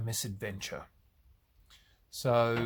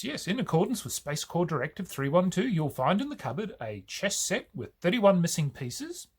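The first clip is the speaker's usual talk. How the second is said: officious recital with lively rises in pitch; Rimmer; 4 semitones higher, 3 dB louder than usual. Acted. Rimmer answering Crichton's demand for leisure facilities, officious. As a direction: read out the list like a pompous official. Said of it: "Rimmer's response is".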